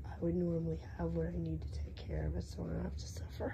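whispery, voice almost gone; losing voice. Real, not acted. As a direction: push words through a sore throat. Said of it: "never had laryngitis like this".

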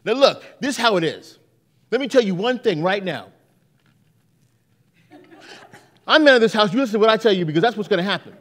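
hammed-up man of the house; mock stern dad. Dad lecturing at table.

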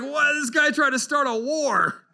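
high, loud, outraged king of Israel. Retold or imitated. King reading the letter, loud and outraged. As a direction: blurt it out as a panicked, indignant king. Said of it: "And the king is like".

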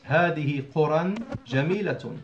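قرى pronounced "quran", linked to جميلة; two-fatha nunation on قرى; nunated ending. Shown as a demonstration. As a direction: end قرى with a clear -an. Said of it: "a nunation sound".

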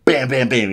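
loud rapid-fire bam sounds; punchy mock blaster shots; imitated blaster fire. Retelling Finn firing his blaster, punchy mock gunfire.

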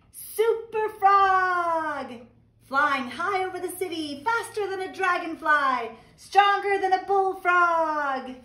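high, bold superhero frog voice; a kid frog playing hero, loud and high; excited Froggy. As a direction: announce it like a proud superhero. Froggy announces superhero costume.

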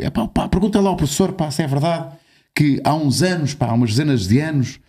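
Retold or imitated. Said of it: "ele sabia que hoje ia, ia estar a conversa contigo".

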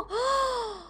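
sharp gasp then a high Oh; startled high gasp. Real, not acted. Player shocked by the game, high gasp. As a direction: catch your breath in shock.

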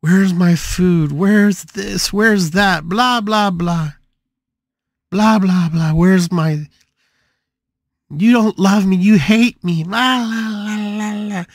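loud, high, demanding rant; ranting daughter. Retold or imitated. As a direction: yell it like a spoiled daughter throwing a fit. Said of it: "yelling and screaming".

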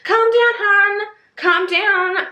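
very high-pitched, exaggerated comeback; hammed-up high defensive retort; mock exasperation. Acted retort to an angry critic.

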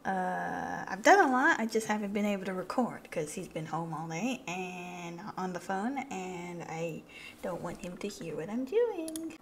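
hushed, secretive whisper; whispering on the phone. Real, not acted. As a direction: whisper so dad can't hear. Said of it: "I have to whisper because he's right below me".

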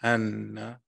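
slow, careful syllables for repeating; measured call-and-response Arabic recitation. Shown as a demonstration. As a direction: say it slowly so a learner can repeat. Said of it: "I'm gonna say it slow in Arabic".

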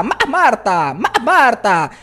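"Ma" cracked before "Marta"; scratch break. Shown as a demonstration. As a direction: stutter the first syllable with a squawk. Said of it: "El nombre de su novia".

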